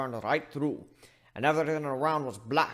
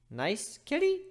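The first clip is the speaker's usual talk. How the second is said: placating; 13 semitones higher, slower than usual. Acted. Placating angry nurse.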